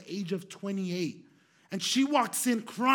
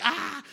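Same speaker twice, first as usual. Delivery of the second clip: high imitated sob; mock crying wail; 7 semitones higher, 4 dB louder than usual. Imitating the crying stranger to the listeners, mock wail. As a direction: put on a clumsy girlish cry. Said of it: "she was crying".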